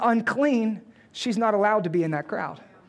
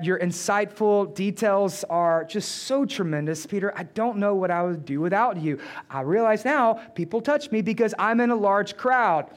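sarcastic praise. Acted. Jesus replies to Peter's needless explanation, mock-grateful and sarcastic. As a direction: lay on the false admiration with light sarcasm. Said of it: "that's kinda the way that Jesus is saying it".

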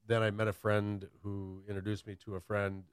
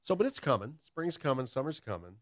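outside voice; 6 semitones higher than usual. Real, not acted. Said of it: "was that my outside voice?".

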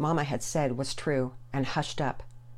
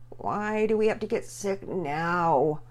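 moaning; 4 semitones higher, slower than usual. Acted. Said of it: "Pearson moaned".

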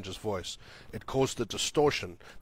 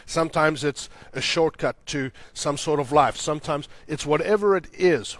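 raised, insistent preaching voice; impassioned preaching; 4 semitones higher, 7 dB louder than usual. Real, not acted. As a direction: press each point on the congregation. Preaches with force.

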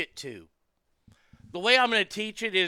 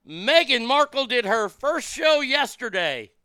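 indignant rant; 4 semitones higher, 5 dB louder than usual. Real, not acted. Ranting about Spotify money.

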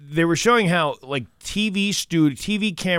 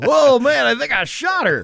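high, loud flustered cop; bumbling deputy; 11 semitones higher, 6 dB louder than usual. Retold or imitated. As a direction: sound like Barney Fife realizing it. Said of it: "RoboCop the Barney Fife in one".

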